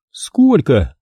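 crisp, matter-of-fact ask; деловито; businesslike question. Acted. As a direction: ask straight to the point. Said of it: "конкретно и делово спросила Суханова".

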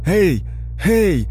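loud, high hail; calling out. A narrator's reading. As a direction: call sharply for attention. Calling to get Bananchik's attention.

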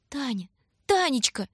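little brother calling his sister, near tears. A narrator's reading. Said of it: "звал Бобка, чуть не плача".

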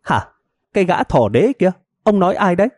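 high, hands-on-hips demand; wife confronting her husband; challenging wife. Acted. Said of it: "chống nạnh hỏi".

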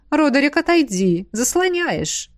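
небрежный выше обычного голос Шейры; отмахнись от Родерика, не глядя; бесцеремонно. Acted. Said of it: "попросила Шейра бесцеремонно". (Шейра отгоняет Родерика от зрелища, бесцеремонно)

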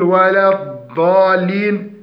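الضالين with the dad turned into a heavy "d"; dad as heavy dal. Shown as a demonstration. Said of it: "فيقول". (قلب الضاد دالا مفخمة)

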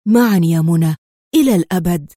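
emphatic, devoted vow; heartfelt repeat. A narrator's reading. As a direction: repeat it as a solemn promise, pitched low. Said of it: "وهو يكرر".

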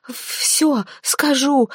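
slow, strained, choked-out rasp; hoarse wheeze. Acted. Zateya, throat gripped, wheezes her surrender. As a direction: squeeze the words out through a throttled throat. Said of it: "просипела Затея".

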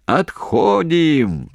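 very slow, high, stretched yell; drawn-out shout. Acted. Commander shouting the retreat order to troops. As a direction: stretch the call long across the trench. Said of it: "протяжно закричал Головачёв".

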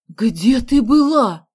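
loud, slow, cross question; angry demand. A narrator's reading. Nanny scolding the runaway girl, angry and loud. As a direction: demand it angrily, near tears. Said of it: "сердито спросила Вава".

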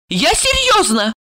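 high tipsy prophetess; drunken woman's portentous warning; ominous announcement. A narrator's reading. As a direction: foretell doom in a high, drawn voice. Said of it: "зловеще сообщила она".

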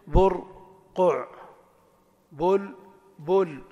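برقع very slowly as bur...qu'; بلبل drawn apart as bul...bul; syllable-by-syllable. Shown as a demonstration. Teacher shows two u vowels, slowly syllable by syllable. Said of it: "الثاني ضمتين بينهما سكون".

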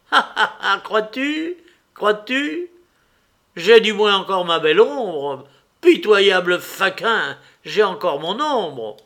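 high, loud cackling taunt; mock him with manic glee; frenzied scornful laughter. A narrator's reading. Little man taunting the stranger, frenzied and scornful. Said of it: "en riant dédaigneusement et avec une sorte de frénésie".

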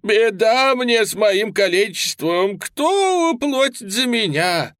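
high, loud, slow whining wail; tearful lament. A narrator's reading. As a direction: wail like a beggar pitying himself. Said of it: "причитал плаксиво".

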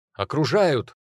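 high, loud alarm cry; shouted warning. A narrator's reading. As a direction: yell the warning. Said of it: "выкрикнул Чак Нолан".

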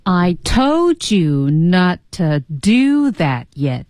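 very slow, careful read-along; learner's drawn-out echo of the model; slow repeat after teacher. Shown as a demonstration. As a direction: stretch each word, weight on "told" and "do". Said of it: "来跟着老师读吧".

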